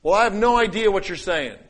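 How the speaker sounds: high, loud dismissal; proud, not humble. Shown as a demonstration. Preacher demonstrating pride posing as humility, proud and dismissive. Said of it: "Humility doesn't sound like this".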